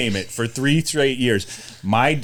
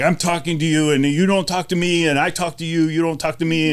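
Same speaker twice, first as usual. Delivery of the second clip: lightly imitated broken-English referee, pitched up; a hint of broken English, higher voice; 5 semitones higher than usual. Referee scolding parents on the sideline in broken English. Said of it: "speaking in broken English".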